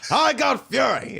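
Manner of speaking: slow mock English accent; teasing English accent. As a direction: drawl it like a Brit backing Fury. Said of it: "you'd say it in, like, an English accent".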